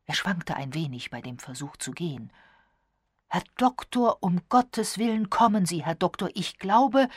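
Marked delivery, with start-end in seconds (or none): 3.3-7.1 loud, raised, urgent plea; alarmed call. A narrator's reading. Elliot summons the doctor to the body, alarmed call.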